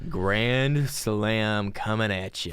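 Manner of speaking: very slow, drawn-out server call; hammed-up waiter voice; diner waiter.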